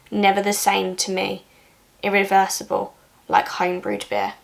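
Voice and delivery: measured, even poem recital with pauses; restrained poem voice, falling line ends; poetry reading. Acted. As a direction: read it as verse, pausing between phrases. Reads a poem aloud.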